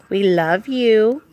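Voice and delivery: slow, drawn-out affection. Real, not acted. Owner telling the dog it is loved, doting coo. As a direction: tell a pet lovingly, stretching it out.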